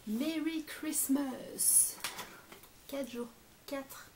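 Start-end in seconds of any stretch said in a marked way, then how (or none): 0.1-2.0 slow and drawn out. Real, not acted. Reading the card aloud.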